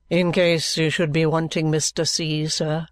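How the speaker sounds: understated, level, subdued delivery; lightly voiced dry lawyer. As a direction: report it evenly, with lawyerly reserve. Vholes speaking in story.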